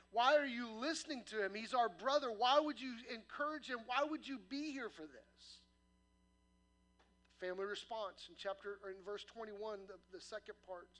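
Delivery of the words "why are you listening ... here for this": loud, frustrated brothers pleading; exasperated and a touch louder. Retold or imitated. Brothers scolding the crowd, loud and frustrated. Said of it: "frustrated, going".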